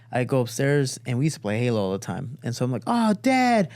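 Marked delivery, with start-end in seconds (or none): 2.9-3.7 high-pitched, gushing fake affection; super over-exaggerated. Kid stalling his dad, over-exaggerated delight. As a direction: ham up the loving son. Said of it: "super over-exaggerated".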